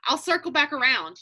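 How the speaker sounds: P=A; calm reassurance. Retold or imitated. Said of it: "just be like".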